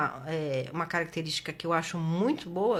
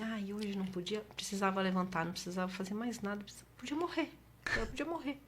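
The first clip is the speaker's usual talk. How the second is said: much softer, drained, almost to herself; soft despairing murmur; 8 dB quieter than usual. Retold or imitated. Recalling her depression, lying in bed, softly despairing. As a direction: let the words sink away hopelessly.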